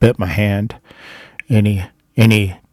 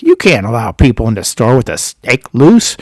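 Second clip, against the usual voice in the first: retold telling-off; mildly indignant scolding; 2 semitones higher, 4 dB louder than usual. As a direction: imitate someone laying down the law. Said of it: "he starts scolding me".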